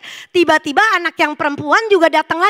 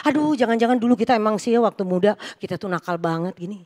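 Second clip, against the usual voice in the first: accusing; 4 semitones lower, faster than usual. Retold or imitated. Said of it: "jadi roh penuduhan loh".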